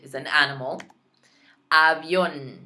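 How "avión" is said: 1 whispered. Shown as a demonstration. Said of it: "whispered demo word".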